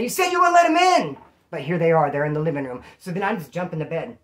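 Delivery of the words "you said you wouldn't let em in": high, loud betrayed shout; acted outburst at a friend; retold indignant yell. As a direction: yell it as an outraged accusation. Imagined protest to his friend.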